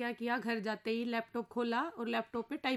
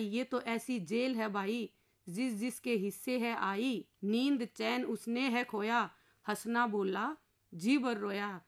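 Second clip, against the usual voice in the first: poem recitation; slower than usual. Acted. Married inspector telling the husband he can't save him, slow verse. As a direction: chant the weary inspector's lament slowly.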